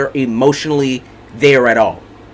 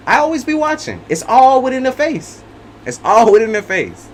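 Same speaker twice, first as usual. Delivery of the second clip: higher, insistent declaration; emphatic insistence; 7 semitones higher than usual. Real, not acted. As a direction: drive home that she always knows. Insisting she observes faces.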